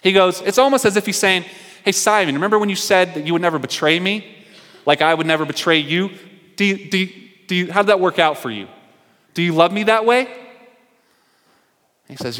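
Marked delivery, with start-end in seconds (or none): 1.8-10.3 probing challenge. Retold or imitated. Jesus challenging Peter about his betrayal, pointed. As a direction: needle him a bit.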